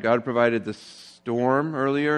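God provided the storm earlier, said slowly and deliberately; slow stress on provided. Shown as a demonstration. Pastor stressing the three times God provided, slow and deliberate. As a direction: lay each word down slowly. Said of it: "it says that God provided three times".

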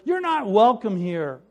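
hostile. Acted. Hostile brother through window.

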